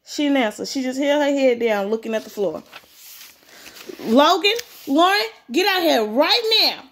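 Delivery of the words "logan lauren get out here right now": louder, higher parental call; yelled summons. A narrator's reading. Father yelling for Logan and Lauren to come out, urgent. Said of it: "I yelled, holding my mother's hand".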